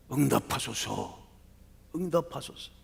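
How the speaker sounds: pleading cry, easing off from the scream. Acted. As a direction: beg the gods for an answer. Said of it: "마치 절규하듯 부르짖지요".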